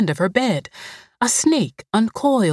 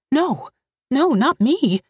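put-on high, frightened child pleading; 7 semitones higher than usual. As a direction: beg like a scared little girl. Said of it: "pleaded Mildred".

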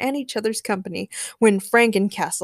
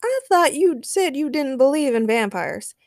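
raised, singled-out mock surprise; teasing; 6 semitones higher, 3 dB louder than usual. A narrator's reading. Daniel catches Peter out on vampires, teasing. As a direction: needle a friend playfully, voice lifted. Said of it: "teased Daniel".

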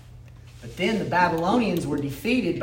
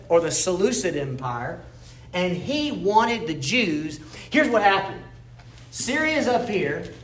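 ordinary talk

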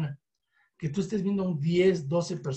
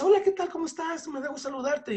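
high, chirpy phone greeting, much higher; overly cheery caller; 9 semitones higher, faster than usual. Shown as a demonstration. Caller greeting an unknown contact, high and chirpy. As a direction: gush a sugary hello into the phone. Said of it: "y le digas".

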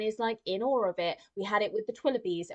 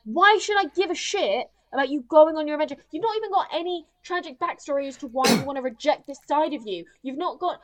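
louder, higher frustrated rant at Barbie; fed-up viewer ranting at Barbie; exasperated rant; 4 semitones higher, 4 dB louder than usual. Retold or imitated. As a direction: vent at her like a fed-up viewer. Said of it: "it's like".

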